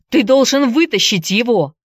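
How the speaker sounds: high urgent shout; Andy shouts at James to save the boy. Acted. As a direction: demand it loudly. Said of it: "закричал Энди".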